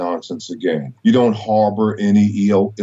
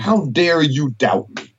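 stern God voice; 5 semitones higher than usual. Retold or imitated. God voiced again, higher.

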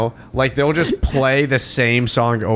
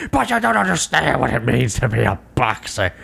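mock boxer voice; 3 semitones lower than usual. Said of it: "why are you talking like this?".

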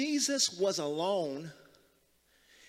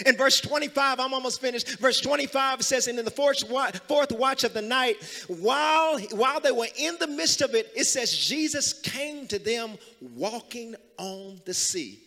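raised preacher's scripture reading; preaching; 5 semitones higher, 3 dB louder than usual. Real, not acted. Preacher reading scripture to a congregation, preaching. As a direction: read the verse out to the congregation, pitched up.

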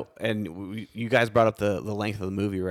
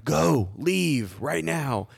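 higher-pitched mock yell with a drawn-out "go"; retold yell; 5 semitones higher, much slower than usual. Friend recounts shooing Amato off to the theater, mock yelling. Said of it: "immediately just started yelling at him".

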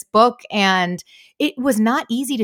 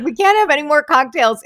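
higher-pitched amateur imitation of a co-author's accent; lightly hammed-up accent of a co-author; Stuart's accent; 6 semitones higher, 4 dB louder than usual. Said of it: "I love Stuart's accent so much".

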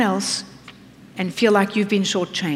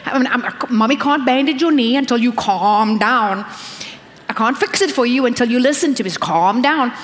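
soothing mother. Pretend. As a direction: settle a crying child gently. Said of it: "you gotta say".

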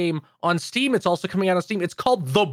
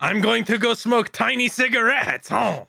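fake French accent; 4 semitones higher than usual. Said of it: "in a fake French accent".

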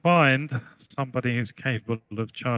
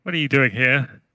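bleating voice; 3 dB louder than usual. Acted. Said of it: "the bleating voice of Ramius say".

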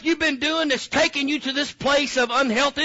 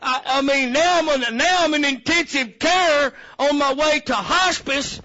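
outraged complaint; 4 semitones higher than usual. Retold or imitated. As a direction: rant like a ruined patient. Complaining victim, shouting.

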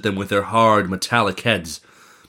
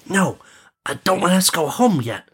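prince; 9 semitones higher than usual. Acted.

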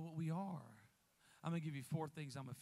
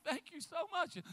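lightly voiced woman; 11 semitones higher, 3 dB louder than usual. Retold grateful woman on phone.

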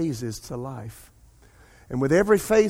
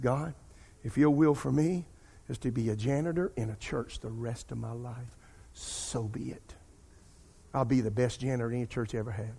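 retold surrender; 4 semitones lower, 6 dB quieter than usual. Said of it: "I broke down one day".

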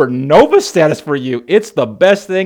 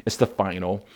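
quiet resolve; 7 semitones lower, 6 dB quieter than usual. Retold or imitated.

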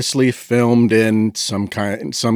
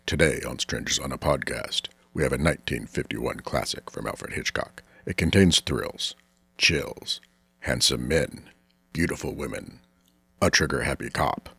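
low, quiet announcer read; smooth PA announcer voice; airport announcement; 9 semitones lower, 9 dB quieter than usual. Acted. Train announcer intro.

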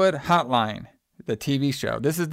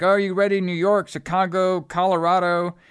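excited TV host; 6 semitones higher than usual. Retold or imitated. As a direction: pump up the crowd like a New Year's host. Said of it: "And then she goes like".

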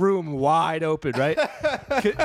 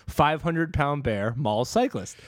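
slow headline read; slower than usual. Shown as a demonstration. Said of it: "they said".

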